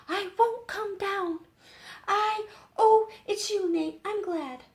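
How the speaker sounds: put-on high, loud stubborn girl turning glad; a young girl refusing, then relieved; high girlish voice, defiant then pleased. A narrator's reading.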